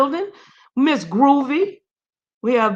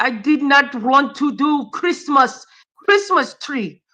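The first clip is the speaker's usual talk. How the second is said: mock Russian accent; 3 semitones higher than usual. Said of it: "she a mean Russian lady".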